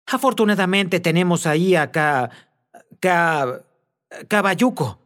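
high, stumbling over the name in fright; breathless frightened stutter; panicked stammer. A narrator's reading. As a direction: gasp it out, tripping on the syllables.

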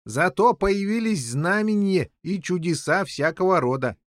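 high, eager announcement; important news. A narrator's reading. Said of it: "какую он принёс важную весть". (с важной вестью)

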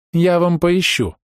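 high, slow warning; mock threat. A narrator's reading. Bride warns a tablemate, threatening slowly. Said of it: "пригрозила Вика".

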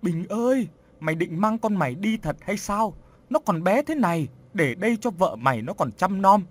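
grieving mother begs her dead son; old mother wailing for her son; bursting into tears. Acted. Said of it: "Bà Dạng khóc òa lên".

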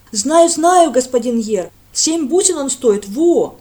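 loud, slow, high-pitched rustic call; eager village lad. A narrator's reading. Lad runs up to Brent, eager and slow. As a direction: call out to the priest, drawn out.

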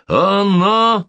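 high, loud excited shout. Acted. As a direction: cry it out in joy. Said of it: "закричал он".

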